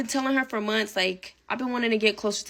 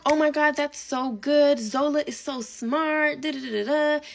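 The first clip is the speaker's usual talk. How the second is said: gushing bestie; 4 semitones higher than usual. Retold or imitated. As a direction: ham up the friend's fake enthusiasm. Bestie gushing over Zola.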